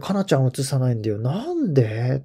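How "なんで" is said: drawn-out, mildly shouted protest; retold cry of disbelief, stretched out slowly; mock yell at screen. Golf fan complaining to the TV broadcast, mock yelling. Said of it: "画面に向かって叫んでたら".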